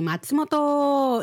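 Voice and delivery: a light, slow train station call; station announcer voice. Retold or imitated. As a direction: stretch the O like the platform announcement. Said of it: "en el tren alargan mucho la, la O".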